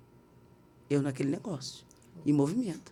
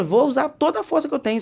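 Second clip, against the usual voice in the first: higher, raised voice of resolve; determinação recontada; 7 semitones higher than usual. Retold or imitated. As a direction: retell it with fired-up determination. Reconta decisão de usar a força. (decisão firme, voz mais aguda)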